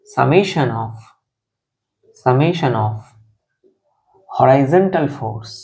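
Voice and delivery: very slow, word-by-word classroom dictation. Shown as a demonstration. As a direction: dictate each phrase slowly with pauses. Teacher dictates the equilibrium conditions.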